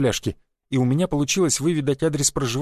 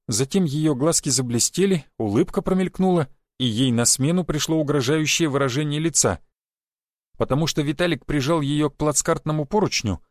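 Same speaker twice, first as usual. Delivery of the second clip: plain reading voice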